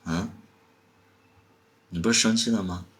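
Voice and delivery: ordinary talk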